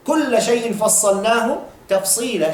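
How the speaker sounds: rapid Arabic verse recited; brisk Quranic recitation; quick Quran recitation. Acted.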